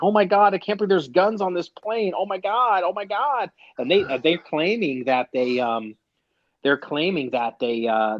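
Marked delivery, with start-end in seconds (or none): 0.0-3.5 mock panicked high squeal; freaked-out passenger. Mocking a panicked passenger who finds a gun, high squeal. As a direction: ham up a passenger losing it over a gun.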